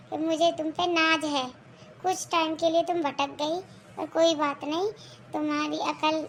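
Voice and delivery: contented husband settling the family quarrel; husband approving his wife's change of heart; lightly voiced father.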